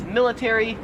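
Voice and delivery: "military" as MIL-i-tair-ee, four syllables; full TAIR in "military"; American pronunciation. Shown as a demonstration.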